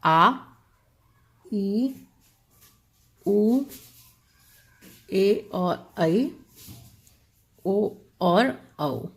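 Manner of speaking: each vowel held long and slow; drawn-out long vowels. Shown as a demonstration. Teacher showing students the long vowels, slow and drawn out. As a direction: stretch every vowel to show its length. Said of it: "सात दीर्घ स्वर हैं".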